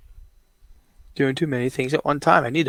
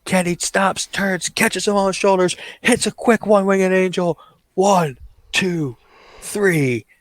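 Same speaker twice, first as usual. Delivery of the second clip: excited call of the finish, higher then settling into slow announcement; wrestling play-by-play; 3 semitones higher, slower than usual. Pretend. Commentator calling Kenny's winning finish, rising play-by-play. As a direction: call the pinfall and name the winner.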